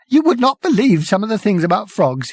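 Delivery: gasping Prack. A narrator's reading. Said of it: "he gasped".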